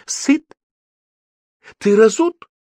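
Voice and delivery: high, abrupt questioning; exasperated mother's interrogation; shouted questions. A narrator's reading. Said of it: "выкрикивая всякие вопросы".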